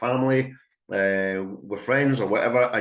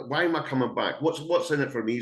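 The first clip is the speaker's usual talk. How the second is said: dog's voice; 4 semitones higher than usual. Retold or imitated. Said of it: "says the dog".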